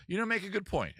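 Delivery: high, hammed-up British concession; borrowed British accent. Man conceding to a seagull, British accent. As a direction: agree in a swooping British accent. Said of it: "suddenly taking on your accent".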